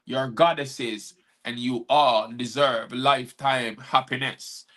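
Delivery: emphatic rhymed recital; punchy, rhythmic encouragement in verse; spoken-word poem. Acted. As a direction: perform it as an uplifting poem to women.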